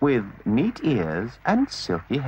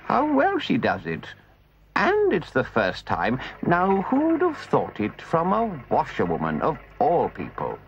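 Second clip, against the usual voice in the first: gentleman voice; 3 semitones higher than usual. Acted. Gentleman comments.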